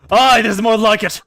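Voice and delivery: a touch of theatrical bravado; mildly hammed-up eager warrior; lightly voiced warrior. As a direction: declaim a battle challenge, relishing it. Voices Gilgamesh's challenge.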